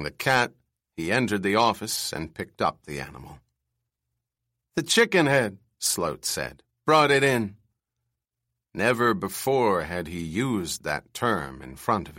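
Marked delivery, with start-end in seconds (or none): 4.8-5.6 put-on screechy old man. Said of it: "his bird screech voice". 6.9-7.6 put-on screechy old man. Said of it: "his bird screech voice".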